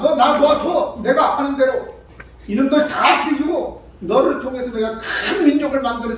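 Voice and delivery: forceful divine threat, lightly voiced; wrathful God. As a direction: pronounce judgment with acted wrath. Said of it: "진노하여서".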